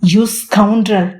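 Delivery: very slow, stretched-out angry insult. A narrator's reading. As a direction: drag out each syllable in anger. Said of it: "కోపంగా అతని వైపు తిరిగి అంది".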